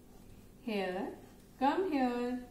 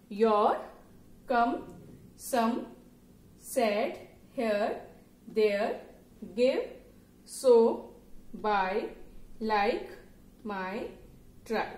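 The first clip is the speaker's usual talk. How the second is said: drill reading; much slower than usual. Shown as a demonstration. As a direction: call out each sight word for the child to repeat. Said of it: "just read them".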